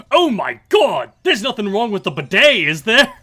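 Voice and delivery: loud, high Aussie alarm; hammed-up Australian panic; mock Australian accent. Fan acting father alarmed about the bidet, Australian accent. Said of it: "cut to Australia".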